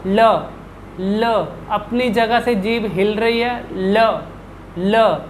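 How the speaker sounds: ल with the tongue touching lightly, no vibration; tongue barely up for ल; light la demo. Shown as a demonstration. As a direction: repeat ल gently, one at a time. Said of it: "जीभ को हल्का सा ऊपर लगाएं".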